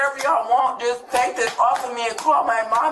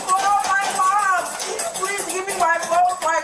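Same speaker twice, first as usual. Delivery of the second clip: desperate begging; 3 semitones higher, slower than usual. Real, not acted. Arrested mother begging to call mom.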